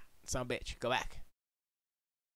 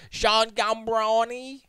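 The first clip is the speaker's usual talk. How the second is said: drawn-out, high, louder mock announcement of a name; playful name mangling; 8 semitones higher, 5 dB louder, much slower than usual. Streamer can't say the kid's name, slow playful high exaggeration.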